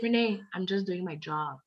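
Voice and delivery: doctor's words through a laugh; quoting him, still laughing; laughing doctor quote. Retold or imitated.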